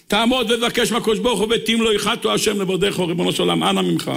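high-pitched, earnest supplication; impassioned sermon prayer, pitch held high; fervent prayer. Real, not acted. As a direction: plead with God aloud. Prays aloud with congregation.

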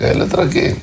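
ordinary delivery, nothing marked

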